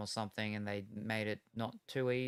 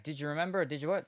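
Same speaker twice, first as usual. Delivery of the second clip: quick eager question; 4 semitones higher, much faster than usual. Retold or imitated. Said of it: "and then she's like".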